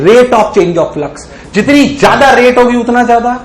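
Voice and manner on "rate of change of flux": slow deliberate definition. Shown as a demonstration. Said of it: "teacher spells out the definition".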